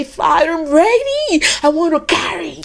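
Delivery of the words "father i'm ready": earnest prayer. Pretend. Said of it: "start right now and say".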